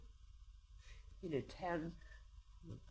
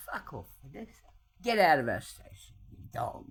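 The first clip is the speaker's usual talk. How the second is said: mock police bark; 3 semitones lower, 8 dB louder than usual. Retelling police insulting her.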